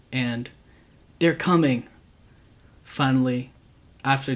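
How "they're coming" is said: high, loud panicked shout; fleeing woman yelling at the neighbours; terrified warning. Retold or imitated. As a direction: scream the warning in fear. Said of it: "The only thing this woman could muster was".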